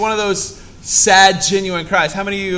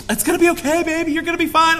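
much higher, soothing motherly voice; reassuring mom; 12 semitones higher, faster than usual. Retold or imitated. Pastor imitating his mother reassuring him, high and soothing. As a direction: coo it like a mom calming her child.

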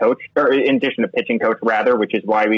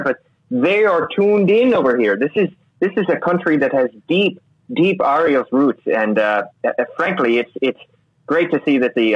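higher-pitched, badly faked Irish accent; put-on Irish accent; 4 semitones higher than usual. Co-host reporting pub chatter from Ireland, hammed-up Irish accent. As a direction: play up a mock Irish lilt. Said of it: "I think I'm gonna drop the accent".

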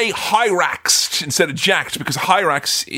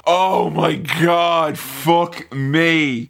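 slow, drawn-out exasperation; slow-burning exasperated groan of words; 2 semitones lower, much slower than usual. Real, not acted. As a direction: drag each word out in weary disbelief. Exasperated reaction to film scene.

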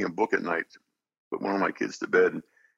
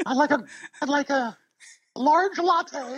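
high heroic cartoon voice; Lion-O voice; slower than usual. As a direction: order coffee as Lion-O, laughing. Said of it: "Sonny's Voice or something just to mess with people".

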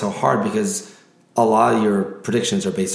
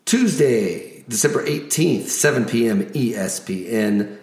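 announcer voice. Acted. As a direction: hype each matchup like a ring announcer. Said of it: "my announcer voice".

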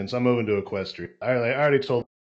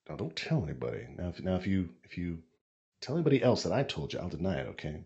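whispering a secret; 8 semitones lower, 7 dB quieter, faster than usual. Acted. Telling Alex a secret.

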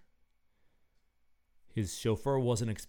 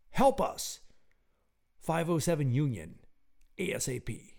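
urgent plea; 4 semitones higher, 4 dB louder than usual. Acted. Scrawled crayon plea for help.

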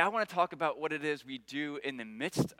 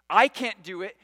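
pleading; 3 semitones higher, 8 dB louder than usual. Acted. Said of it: "And he's saying".

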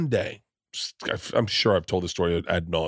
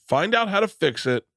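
yoga teacher voice; 10 semitones higher than usual. Retold or imitated. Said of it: "And he goes".

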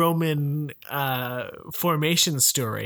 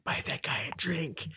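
quoted patron; 10 dB quieter than usual. Retold or imitated. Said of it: "people are pointing at you saying".

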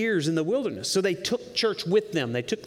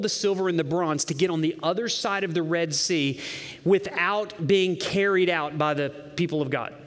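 ordinary talk, nothing marked

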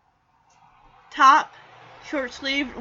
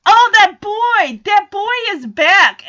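loud, high delighted gasp; excited; 7 semitones higher, 7 dB louder than usual. Real, not acted. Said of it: "excited about the boy returning".

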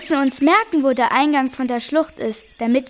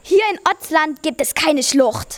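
a hint of a witch. Strange woman voiced in story.

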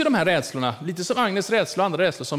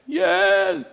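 higher, louder call of help; frightened old lady calling; 4 semitones higher, 6 dB louder than usual. Retold or imitated. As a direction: cry out to the carer. Agnes ropar i sängen. (Agnes ropar högre och starkare på hjälp)

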